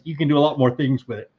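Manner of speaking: talking through a yawn. Real, not acted. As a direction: yawn mid-sentence. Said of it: "I don't know why I keep yawning".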